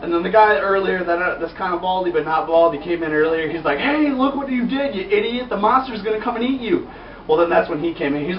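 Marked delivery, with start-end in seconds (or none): 3.8-6.9 higher-pitched, hammed-up reproach; mock scolding. Man blames idiot for the monster, mock scolding. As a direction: scold in a put-on high voice.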